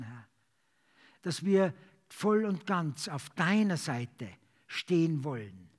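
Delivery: earnest praying voice; fervent prayer. Acted. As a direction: pray aloud for the church. Congregational prayer.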